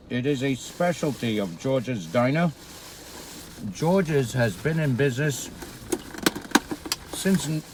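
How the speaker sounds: talking through a mouthful of burger; chewing while talking; mouth full. Real, not acted. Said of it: "yes, I'm talking with my mouth full".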